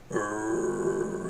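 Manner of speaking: drawn-out dog grumble; imitated dog growl. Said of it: "comes up to me and goes".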